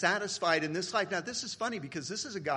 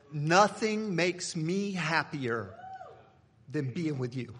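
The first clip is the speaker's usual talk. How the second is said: tender reply to wife; slower than usual. Retold or imitated. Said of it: "No, that's not what I said".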